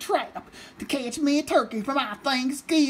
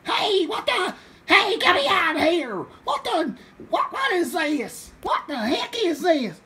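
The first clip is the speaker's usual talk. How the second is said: startled yelps; 4 semitones higher than usual. Acted. Farmer caught in a trap.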